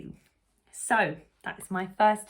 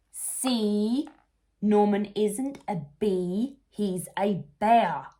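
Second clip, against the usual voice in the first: louder, triumphant accusation; triumphant reveal; 3 semitones higher, 6 dB louder, slower than usual. Acted. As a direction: prove your point to everyone. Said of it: "said Amelia".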